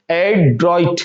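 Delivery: "एड्रॉइट" as ad, tiny space, droit; careful split "एड्रॉइट"; slight gap after A. Shown as a demonstration. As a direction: linger on the first part of "एड्रॉइट". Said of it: "ए फिर space देंगे थोड़ा सा".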